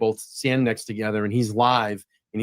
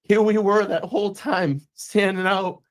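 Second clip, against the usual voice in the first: higher, choked-up retelling; moved, pitched-up recollection; emotional; 5 semitones higher than usual. Real, not acted. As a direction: voice rising with emotion as he recalls it. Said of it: "And I'm gonna get emotional".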